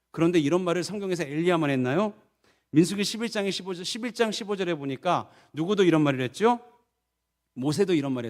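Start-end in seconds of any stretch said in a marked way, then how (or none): none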